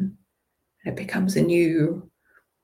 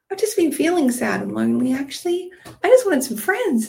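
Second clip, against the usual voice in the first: sad troll; 6 semitones higher, 3 dB louder than usual. Acted. Enchanted troll confesses loneliness.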